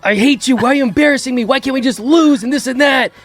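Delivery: imitating Gene. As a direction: voice an embarrassed friend, lightly. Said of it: "And Gene was like".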